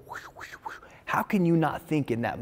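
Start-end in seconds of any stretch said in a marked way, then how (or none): 0.1-0.7 very soft, voiceless mock whisper; imitated whispering. People in the crowd leaning over to gossip, whispering. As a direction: imitate people whispering behind someone's back. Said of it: "lean over and whisper".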